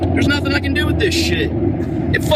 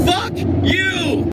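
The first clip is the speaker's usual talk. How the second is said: angry shout; 7 semitones higher than usual. Real, not acted. Furious at bad haircut.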